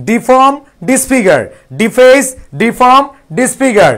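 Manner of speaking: words stretched out slowly for repeating; slow recitation. Shown as a demonstration. Teacher leading the class in memorizing words, slow. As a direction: recite ডিফর্ম, ডিসফিগার, ডিফেস slowly, one by one. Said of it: "মুখস্থ করে ফেলি, সবাই আসো".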